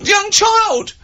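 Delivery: high, slow, squealing cry for help; panicked bystander. Retold or imitated. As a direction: squeal like a frightened passer-by. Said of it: "people walk along and they go".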